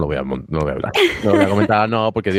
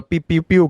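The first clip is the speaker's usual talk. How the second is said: toy robot voice; 8 semitones higher, 3 dB louder, slower than usual. Retold or imitated. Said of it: "Para empezar, voz de robot".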